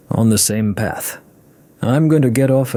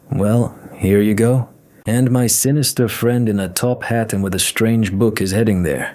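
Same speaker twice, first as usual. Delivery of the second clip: slight lisp. Acted. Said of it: "Vika began to speak with a slight lisp".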